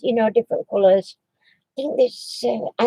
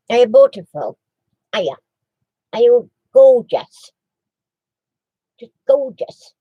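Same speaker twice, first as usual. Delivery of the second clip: doting coo; 5 dB louder than usual. Real, not acted. Cooing praise at the dog.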